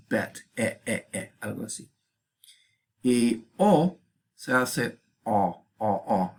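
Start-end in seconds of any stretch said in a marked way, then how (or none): 0.1-1.3 bet and E with an open, lax e; E held open and relaxed like English bet. Shown as a demonstration. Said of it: "como en inglés". 5.8-6.4 O said as an open o, as in English bought. Shown as a demonstration. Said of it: "algo así como en inglés".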